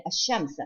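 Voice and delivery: ash-shams with no L, doubled SH; silent lam. Shown as a demonstration. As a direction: merge the article straight into SH in ash-shams. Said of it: "We do not pronounce the lam".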